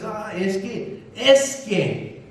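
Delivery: slow, halting mock hesitation; hesitant stammer. Preacher mimics a doubtful churchgoer, mock hesitation. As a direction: drag out "es que" like someone unsure of their faith.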